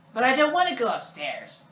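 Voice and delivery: high, loud mock-child protest; whining kid. Kevin objecting to going upstairs, whiny kid voice. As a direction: whine back like a put-out kid.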